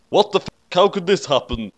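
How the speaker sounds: mock shriek of shock; high startled yelp of panic; mock scream. A narrator's reading. Ray shrieks at the pregnancy test, mock scream. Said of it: "Screamed Ray".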